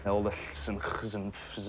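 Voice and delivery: hissed ll, throaty ch, plain f sounds; Welsh ll, ch and f sounded out. Shown as a demonstration. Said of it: "different variations on how to say words".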